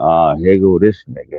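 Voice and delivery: mock low muttering. Retelling what a man said on a panel: imitating someone saying it real low. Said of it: "he said it real low".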